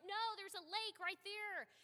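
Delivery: high, loud, slow panicked warning; alarmed shout. Retold or imitated. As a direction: yell the warning as the car heads for water. Dwight panics near lake.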